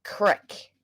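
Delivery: CRICK said short, rhyming with "brick"; regional pronunciation. Shown as a demonstration. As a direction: say creek as "crick". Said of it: "a shirt that says crick".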